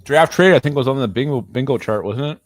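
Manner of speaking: talking through a mouthful of food; chewing while talking. Real, not acted. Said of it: "I'm sorry, I was chewing".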